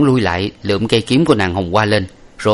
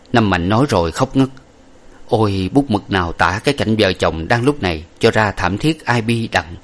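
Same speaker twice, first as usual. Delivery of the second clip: ordinary delivery, nothing marked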